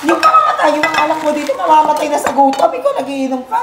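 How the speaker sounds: imitating an enraged mother, shrill and shouted high; mother's furious yell. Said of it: "galit na galit si Mama".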